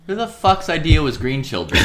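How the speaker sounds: loud words through laughter; can't stop cracking up; laughing hard. Real, not acted.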